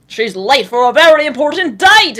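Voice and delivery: high, loud mock announcement; hammed-up storybook cry of lateness; theatrical exclamation. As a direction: belt it out with playful drama. Playfully quotes a famous line.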